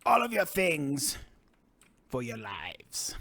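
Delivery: menacing troll, slow and breathy at the end; evil troll voice. Acted. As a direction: threaten like a greedy troll. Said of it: "In my best evil troll voice that I can muster".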